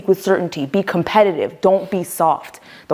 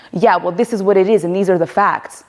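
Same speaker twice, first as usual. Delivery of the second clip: imitating a podcast bro. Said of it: "those podcast bros".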